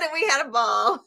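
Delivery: words spoken through a laugh. Real, not acted. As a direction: let the laugh carry the words. Laughing while recalling the fun.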